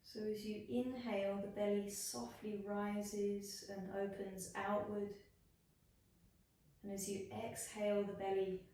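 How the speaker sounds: unhurried body-scan voice with long pauses; guided meditation. Acted. Yoga teacher guiding students through a body scan, guided meditation. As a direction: lead them gently into rest, phrase by phrase.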